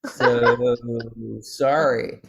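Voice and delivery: cheerful apologetic local voice; small-town waiter voice. Retold or imitated. Restaurant staff voiced, praised as accent.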